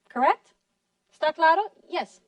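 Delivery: normal talking voice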